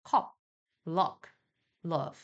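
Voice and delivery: cup의 어를 또렷하고 분명하게; 강세 있는 진짜 어 소리로; clear stressed uh. Shown as a demonstration. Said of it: "어가 명확하게 들린다". (명확한 어 발음 시범)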